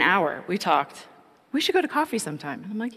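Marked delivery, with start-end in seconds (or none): 1.5-2.6 imitating Ted asking. Voicing Ted asking her out.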